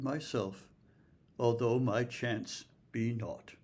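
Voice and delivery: measured, rhythmic sonnet reading; poem reading. Acted. Lecturer reading a sonnet to listeners, measured recital. Reads a Surrey sonnet aloud.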